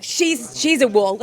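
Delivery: imitated Scouse accent. Adopted Scouser quoting Scouse friends, imitated Scouse accent. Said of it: "hard to do a Scouse accent".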